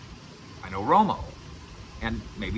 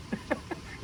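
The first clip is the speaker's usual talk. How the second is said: short breathy laugh; 11 dB quieter than usual. Real, not acted. After his own joke.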